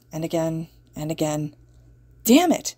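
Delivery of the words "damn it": high, sharp yell of frustration; frustrated yell. Acted. Kirishima at the silent door, yelling in frustration. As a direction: let the frustration burst out. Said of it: "he finally yelled".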